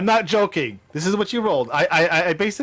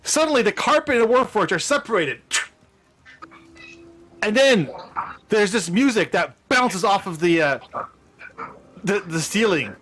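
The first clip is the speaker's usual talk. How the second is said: higher, suspenseful reveal of magic; dramatic game-master narration; 4 semitones higher than usual. Pretend. Game master revealing the wand's effect to players, dramatic narration. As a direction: build the spell's effect with relish.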